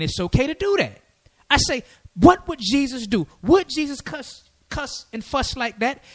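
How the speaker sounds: retold impassioned rebuke. Preacher's rebuke to young brother, retold.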